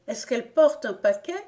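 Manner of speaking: excited exclamation. A narrator's reading. Gon asks the servant about the stork, excited exclamation. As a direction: ask it eagerly, voice lifted. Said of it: "s'écria Gon".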